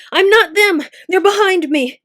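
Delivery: high, loud panicked shriek, rising on me; terrified shriek. A narrator's reading. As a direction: scream it out in terror. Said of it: "he shrieked".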